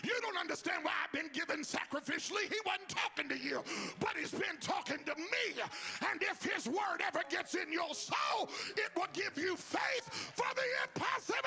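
high, loud shouted preaching; full-force preaching. Real, not acted. Preacher urging the congregation to believe what they heard, full-force shouted preaching. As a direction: belt out each phrase with driving fervour. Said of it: "I feel like preaching right here".

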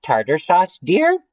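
put-on sweet questioning old-fashioned lady, leaping high at the end; nice little church lady. Church lady offering sauce at the fish fry, high polite question. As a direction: offer it politely, lifting very high on the last word. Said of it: "a nice little lady from the church".

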